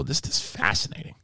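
breathy near-whisper of awe; hushed fascination. Retold or imitated. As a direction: say it under your breath, spellbound. Boba marvelling at the Rancor.

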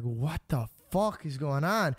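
slow, stretched-out bewilderment; retold disbelief. Finding her Instagram deleted, retold disbelief. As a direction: draw it out in mock shock.

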